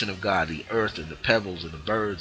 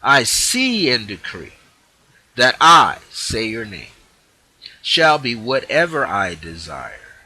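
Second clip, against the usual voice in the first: louder, slower authoritative proclamation; decree; 5 dB louder than usual. Shown as a demonstration. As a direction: decree it with total certainty. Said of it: "let's go with this again".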